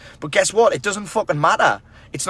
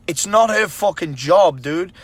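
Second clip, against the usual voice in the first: slower and louder, punching each word; emphatic repeat; 4 semitones higher, 4 dB louder, slower than usual. Real, not acted. Telling the men watching it's not her job, slow loud emphasis. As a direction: drive the point home, slow and loud.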